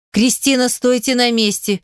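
plain reading voice

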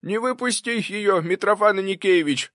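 put-on excited old servant calling out; excited cry. A narrator's reading. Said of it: "азартно крикнул Прохор".

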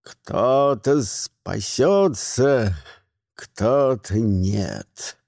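slow, low, solemn verdict; grim old wizard. A narrator's reading. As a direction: weigh each word like fate. Grimuel speaks grimly. (медленно, низко, мрачно)

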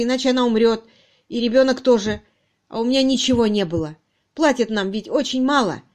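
anxious, emphatic, pleading confession; guilt-ridden man pouring out his story; distraught confessing subordinate. Acted. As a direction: justify yourself miserably. Narrator acts suspect's confession.

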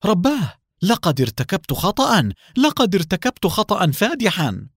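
high, alarmed cry of dismay; panicked. Acted. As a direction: gasp it out in sudden horror. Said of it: "وقالت بهلع".

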